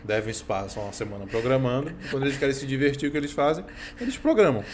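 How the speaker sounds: talking with mouth full of bread; chewing while joking, mouth full. Real, not acted. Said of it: "Vou falar de boca cheia aqui".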